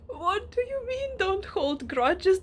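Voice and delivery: high, incredulous retort, slowing on the repeated phrase; indignant disbelief. Retold or imitated. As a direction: throw their words back in protest. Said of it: "And I'm like".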